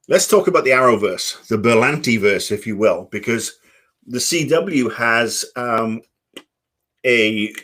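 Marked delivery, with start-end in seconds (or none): 4.1-7.5 talking while crunching; chewing between words; crunching chips. Real, not acted. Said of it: "sorry for the, the crunching".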